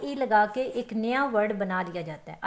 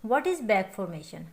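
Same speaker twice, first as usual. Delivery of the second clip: 1 slow question read; 4 semitones lower, much slower than usual. Shown as a demonstration. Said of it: "teacher poses the term slowly".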